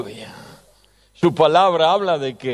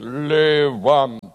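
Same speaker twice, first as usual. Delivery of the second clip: voice of God; much slower than usual. Retold or imitated. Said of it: "busqué yo el tono más grave".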